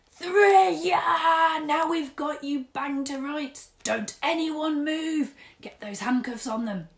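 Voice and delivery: very loud, high, charging yell; shout. Acted. Sergeant bursting into the bedroom shouting orders. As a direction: storm in barking orders.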